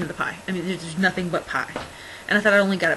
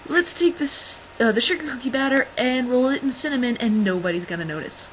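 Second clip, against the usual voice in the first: mocking the boss; 3 semitones higher than usual. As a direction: parody the boss's bright idea. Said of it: "our boss's brilliant idea is".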